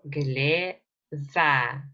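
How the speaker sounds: "gleva" split into gle, then va with a V; V sound. Shown as a demonstration. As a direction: say "gleva" in two separated syllables, sounding the V. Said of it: "So this is V".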